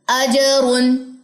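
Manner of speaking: अजरुन drawn out slowly, clear ज with a bounce; अजरुन, slow, with a firm bouncing ज; slow model reading. Shown as a demonstration. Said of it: "अब इसको सुनिए". (धीमा आदर्श उच्चारण, अजरुन)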